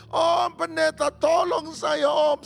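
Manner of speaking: tearful begging. Acted. Widow telling the pastor she can't cope, tearful. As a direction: stretch each plea out in tears.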